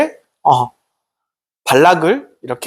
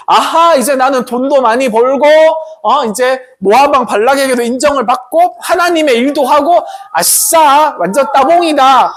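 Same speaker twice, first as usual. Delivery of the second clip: higher, gleeful bragging; excited; 5 semitones higher than usual. Acted. Balaam riding off thrilled about his reward, gleeful. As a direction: cheer about getting rich. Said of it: "이제 막 신났겠지".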